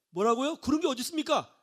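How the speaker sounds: high-pitched protesting outburst; mock outraged protest; acted indignation. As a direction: object in disbelief, pitch climbing. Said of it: "화가 났어요".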